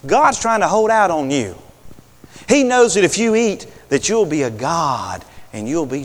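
sly persuading serpent; a hint of the tempting serpent. Serpent keeps tempting Eve.

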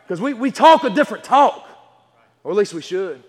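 emphatic pulpit delivery with stretched key words; forceful, measured sermon voice; preaching. Real, not acted. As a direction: preach it firmly to the congregation. Preaches to congregation.

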